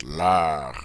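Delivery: leur said slowly and low, open French vowel. Shown as a demonstration. Teacher modelling leur, a nice strong sound. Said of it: "Isn't that a nice, strong sound?".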